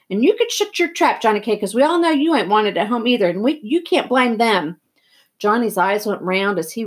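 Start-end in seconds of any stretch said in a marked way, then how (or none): 0.1-4.8 high, forceful start, then easing; angry lashing out. Acted. Boy lashing out at Johnny, moderately angry. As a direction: turn on a friend with moderate heat.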